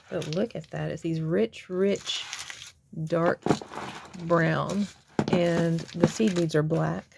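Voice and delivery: rough, gravelly throat; a bit hoarse and gravelly. Real, not acted. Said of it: "Sorry, I sound a little gravelly".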